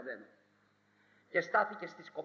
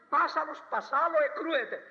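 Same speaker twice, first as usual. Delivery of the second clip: lively proverb; 7 semitones higher, 4 dB louder than usual. Shown as a demonstration. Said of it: "του κοπάναγε".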